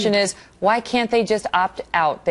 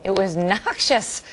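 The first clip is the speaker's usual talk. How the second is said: It was noxious drawn out very slowly and softer, wry; mock echo; 3 dB quieter, much slower than usual. Real, not acted. Host wryly echoing her guest's word, slow mocking drawl. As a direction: dryly savour the word noxious.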